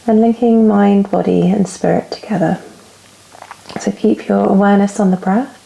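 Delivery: calm yoga teacher's guiding voice with long pauses; guided relaxation. Real, not acted. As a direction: ease them into stillness, phrase by phrase. Leads yoga relaxation and breathing.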